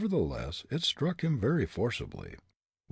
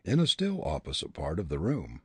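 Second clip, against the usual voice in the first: usual speaking voice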